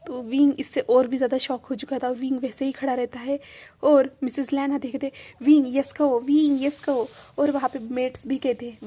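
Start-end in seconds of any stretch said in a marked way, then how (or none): 5.4-7.1 louder, eager push to say yes; eager urging. Acted. Mother eagerly urging Wing to say yes, loud and excited. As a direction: urge him on, excited and insistent.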